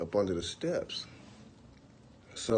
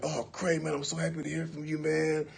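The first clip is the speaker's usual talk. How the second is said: higher, fast, sweet-talking; overly friendly; 5 semitones higher, 3 dB quieter than usual. Retold or imitated. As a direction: gush like an old friend. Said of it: "he sound normal, like".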